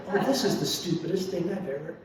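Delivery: laughing through the words; words broken by an embarrassed laugh; laughing self-mockery. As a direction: laugh at yourself as you admit it. Realizing the dream is stupid.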